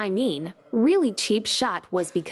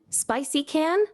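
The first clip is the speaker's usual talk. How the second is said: Manglish question; 8 semitones higher, slower than usual. Pretend. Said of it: "Malaysian English accent".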